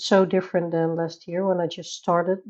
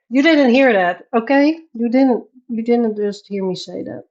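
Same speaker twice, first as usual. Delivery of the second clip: laughing plea; 4 semitones higher, 8 dB louder than usual. Real, not acted. Begging chat to forget.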